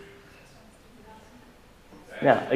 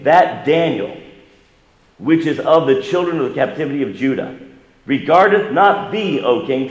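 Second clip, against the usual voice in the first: raised, accusing reading; accusers denouncing; 4 semitones higher, 4 dB louder than usual. Acted. Accusers denounce Daniel to the king, raised accusing voice. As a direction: tattle on Daniel with relish.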